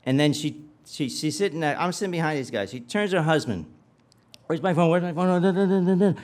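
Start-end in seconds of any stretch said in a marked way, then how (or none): 4.5-6.1 high, loud frantic babble; hammed-up panic, pitched up and insistent; mock freak-out. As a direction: imitate a panicking wife, words tumbling into nonsense. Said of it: "she's all freaking out".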